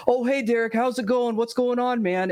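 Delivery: high upbeat streamer greeting; cheery high greeting voice; Phil impression. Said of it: "inevitably always go".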